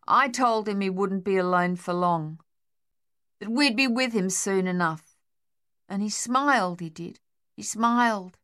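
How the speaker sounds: lost in the memory; wistful shell-shocked soldier. Acted. Harold recalls Thorny.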